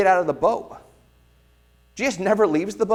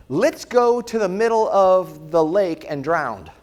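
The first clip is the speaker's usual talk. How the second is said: mock wrong quote; slower than usual. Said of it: "Jesus does not say".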